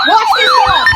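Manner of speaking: high excited squeal; giddy high-pitched watch this. Real, not acted. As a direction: squeal with glee as it goes off. Excited about incoming alerts.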